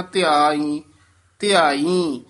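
ਧਿਆਈ said whole in one breath, not split into syllables; said as one word. Shown as a demonstration. Teacher showing ਧਿਆਈ said whole in one breath. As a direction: keep ਧਿਆਈ joined, never break it up. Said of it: "ਧਿਆਈ ਪੂਰਾ ਇਕੱਠਾ ਹੀ ਬੋਲਣਾ".

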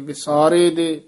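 ਵਿਸਾਰੇ, a tiny break, then ਦੇ; slight dash between. Shown as a demonstration. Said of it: "ਥੋੜ੍ਹੀ ਜਿਹੀ dash ਦੇ ਕੇ". (ਵਿਸਾਰੇ ਤੇ ਦੇ ਵਿੱਚ ਹਲਕੀ ਡੈਸ਼)

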